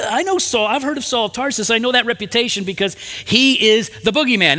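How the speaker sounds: high-pitched, worked-up hesitation; reluctant. Acted. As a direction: push back in mounting disbelief at the request. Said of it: "not quite as eager".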